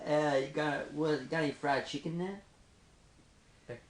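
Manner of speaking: slow, drawn-out American accent. Shown as a demonstration. Asked to do America by a friend, American accent. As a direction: take your time in a general American accent. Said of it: "do a general American accent".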